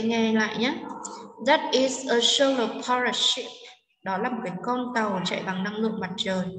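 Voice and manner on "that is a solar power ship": slow model sentence with stress on "solar", "power" and "ship". Shown as a demonstration. Teacher showing students the stressed words, "solar", "power", "ship" stressed. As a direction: lean on "solar", "power" and "ship", taking it slowly. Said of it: "chúng ta sẽ có trọng âm".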